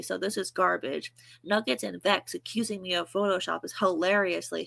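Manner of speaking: flat, even monotone reading. Shown as a demonstration. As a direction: read it deadpan in a monotone voice. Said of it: "my monotone voice?".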